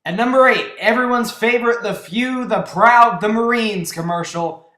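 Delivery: mock ad voice for the countdown; mock recruiting slogan. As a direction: bellow it like a Marines ad. Countdown entry, mock Marines slogan.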